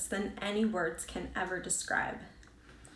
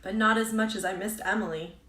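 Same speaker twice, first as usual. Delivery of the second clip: firmer and louder, pushing through grief; stronger now; 4 dB louder than usual. Acted. Firmer, stronger voice. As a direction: Amber steadies her voice, insisting she missed Emily more. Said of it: "stronger now".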